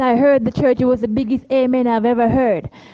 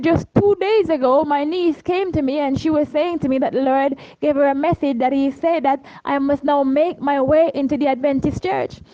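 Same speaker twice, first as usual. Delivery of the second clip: stranger's voice; 2 semitones higher than usual. Retold or imitated. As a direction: keep the stranger's raised voice as he explains. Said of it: "And then he said".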